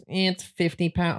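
slow robotic delivery voice. Pretend. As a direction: speak like a stiff robot. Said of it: "the robot goes".

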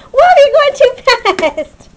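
surprised. Real, not acted. Puppy runs off too fast.

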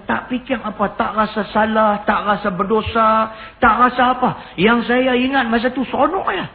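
high-pitched voice of a troubled youth, lightly acted; acted confession.

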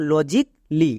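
"লজিক লি" in two parts, "lo-jik, li"; silent-a pronunciation. Shown as a demonstration. English teacher puts the word together, measured "lo-jik, li". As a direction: say "লজিক লি" with no vowel between k and l. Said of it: "তাহলে পুরোটা কি দাঁড়ালো?".

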